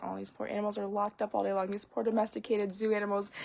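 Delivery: mock pity. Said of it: "that's how I get when I go to the zoo".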